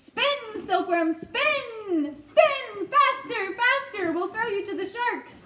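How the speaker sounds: high, loud drawn-out urging; frantic shouting. A narrator's reading. Centipede exhorting the silkworm to spin, frantic shout. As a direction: drive them on with big falling cries.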